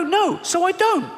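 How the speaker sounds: high, slow, meek whine; high whiny voice. Acted. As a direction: whimper it out. Fearful voice.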